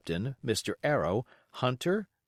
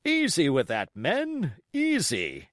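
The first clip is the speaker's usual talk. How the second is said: raised caution to the men; steady them with the powder; calling out; 5 semitones higher, slower than usual. Acted. Captain calls to crew.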